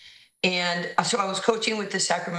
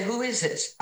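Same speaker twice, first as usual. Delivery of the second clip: New York tone; 5 semitones higher than usual. Retold or imitated. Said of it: "I went so New York in my tone".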